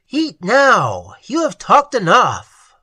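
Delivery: loud, lofty command from above; cold and austere. Acted. Goddess ordering the dead to eat, cold loud command. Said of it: "coldly, austerely, as though from a great height".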